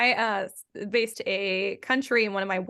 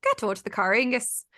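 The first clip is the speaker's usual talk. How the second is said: lightly put-on Irish accent; quick demo of an Irish accent. Shown as a demonstration. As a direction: warm up into an Irish accent with a stock phrase. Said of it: "use for my Irish accent".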